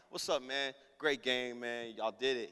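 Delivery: low, soft small talk; understated cool-guy congratulations; playing it chill. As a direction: act unimpressed around your idol. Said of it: "I choose option two".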